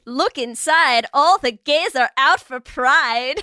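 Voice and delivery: slow, hammed-up Scottish incantation; mock Scottish accent. Host reciting the episode intro, mock Scottish accent. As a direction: recite it slowly in a bad Scottish brogue.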